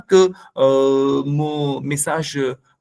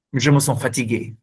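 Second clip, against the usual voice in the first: calm demo; 3 semitones lower than usual. Shown as a demonstration. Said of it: "C'est un ton stable, régulier".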